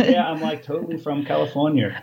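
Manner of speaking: put-on Californian accent, hammed up for a joke; terrible Californian accent. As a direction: badly fake a Californian accent. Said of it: "That was a terrible accent".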